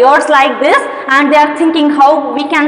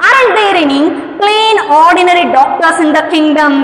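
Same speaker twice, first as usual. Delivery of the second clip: exasperated king; faster than usual. Acted. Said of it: "cried the king".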